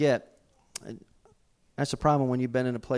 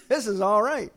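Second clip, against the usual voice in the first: higher, louder relieved gratitude, laughing at the end; joyful relief; 4 semitones higher, 3 dB louder than usual. Retold or imitated. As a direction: laugh through grateful relief. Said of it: "tears of joy".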